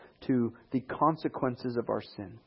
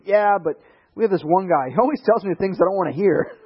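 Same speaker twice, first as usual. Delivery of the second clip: grumbling king; 6 semitones higher, 7 dB louder than usual. Retold or imitated. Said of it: "and he says".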